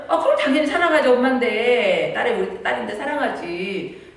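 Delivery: laughing, then slowing to a fond reassurance; laughing mother. Retold or imitated. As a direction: reassure your daughter through a laugh. Mother answers daughter. (웃으며 천천히 달래는 엄마)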